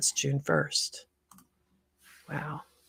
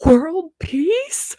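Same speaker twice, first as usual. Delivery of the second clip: high, loud sneering question; mock it like a jeering stranger; 12 semitones higher, 7 dB louder than usual. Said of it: "He's like".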